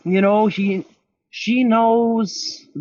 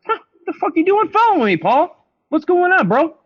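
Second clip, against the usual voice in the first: retold yell; 13 semitones higher than usual. Man retelling how he yelled at his mom's boyfriend, angry shout. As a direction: shout him down, furious and fast.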